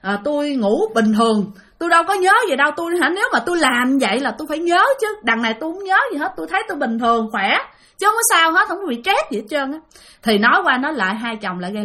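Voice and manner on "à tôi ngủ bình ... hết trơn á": tense, higher protest; getting tense. Retold or imitated. Wife tensely denying she is stressed, pitched up. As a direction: push back quickly, insisting nothing happened. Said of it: "Cô vợ này bắt đầu căng thẳng lên".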